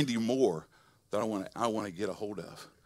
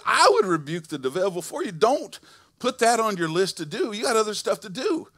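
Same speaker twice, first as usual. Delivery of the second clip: louder, higher voice of God with authority; God's voice; 8 semitones higher, 8 dB louder than usual. Acted. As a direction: speak as God reassuring the tither. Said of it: "God said".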